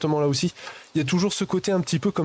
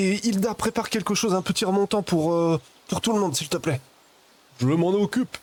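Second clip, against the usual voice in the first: villager voice; 4 semitones higher than usual. Acted. NPC speech, higher voice.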